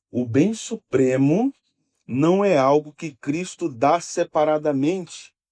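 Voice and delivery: slow, weighty stress leaning on "bem supremo".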